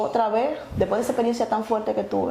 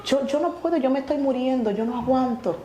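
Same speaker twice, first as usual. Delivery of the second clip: higher-pitched mild plea, as if failing; retold desperate plea; 5 semitones higher than usual. Drugged woman tells the man she is dying, pleading in retelling. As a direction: re-enact saying you can't hold on, pitched up.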